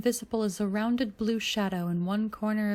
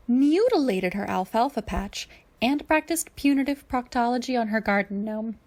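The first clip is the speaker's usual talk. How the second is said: mildly annoyed; 5 semitones higher, 6 dB louder than usual. A narrator's reading. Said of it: "sounding a bit annoyed".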